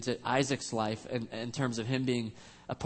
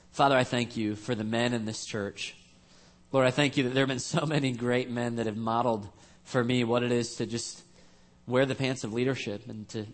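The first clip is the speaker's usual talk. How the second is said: closing prayer. Acted. Pastor leads closing prayer.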